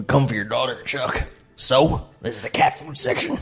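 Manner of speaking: horrible, ghoulish voice. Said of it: "yours is horrible, too".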